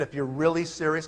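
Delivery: quiet, serious condition; firm posture. Retold or imitated. Recruiter setting terms for his prospect, firm posture. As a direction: lay it down softly and firmly. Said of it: "can you guys hear my posture?".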